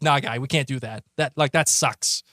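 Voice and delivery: put-on thick Boston accent, lightly done. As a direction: say it like a guy from Boston. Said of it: "my thickest Boston accent".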